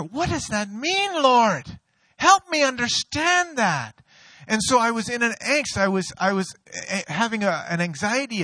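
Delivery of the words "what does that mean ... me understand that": anxious plea. Retold or imitated. Anxious prayer after hearing voice.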